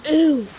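high-pitched, loud hoot; high, loud ooh. Pretend. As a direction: let out a sudden high "ooh". Sudden noise during play.

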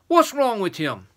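high, loud giant's question; demanding giant. Acted. Second giant questioning the boy, demanding.

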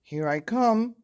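high, loud seeker's call. A narrator's reading. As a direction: call out across the garden in hide-and-seek. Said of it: "called Hal".

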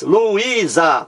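Luísa split into Lu-í-sa; Luísa lengthened, each syllable separate; syllable-by-syllable demo. Shown as a demonstration. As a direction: sound out Luísa in three syllables. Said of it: "vamos aqui à separação silábica".

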